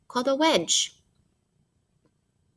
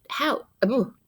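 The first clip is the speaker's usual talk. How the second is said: stretched, higher pirate-captain call; 6 semitones higher, slower than usual. Retold or imitated. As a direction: call it across the deck like a captain. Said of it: "When the captain calls out".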